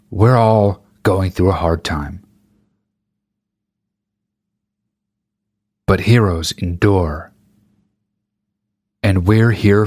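slow, syrupy ad voice parody; mock sentimental ad. Mocking covid ads, slow mock-sentimental ad read. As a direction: ham up a solemn commercial, slowly. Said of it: "super sentimental".

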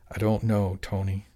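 a mild, weary sigh through the words. Acted. Jimmy answers Tony's desperate question, sighing wearily. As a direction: let it out on a tired breath. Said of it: "Jimmy sighed".

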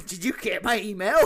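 put-on voice, stress on you; smug villain line, lightly voiced; Matthew Patel impression. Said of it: "Like Matthew Patel".

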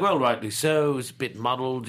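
understated acted reading of a quote; Jeremy Irons. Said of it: "I've got it quite interpreted here".

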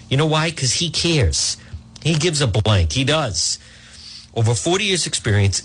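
upbeat host-read commercial pitch; radio ad read. Acted. Host reads a roofing ad to his listeners, upbeat pitch. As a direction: sell the roofer like a trusted friend.

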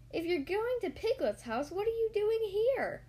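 puzzled challenge, climbing high at the end; lightly voiced Rabbit demanding an answer; questioning Rabbit. A narrator's reading. Rabbit questions Pooh sharply.

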